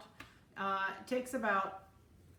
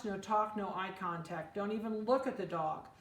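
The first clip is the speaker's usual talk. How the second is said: ordinary talk, nothing marked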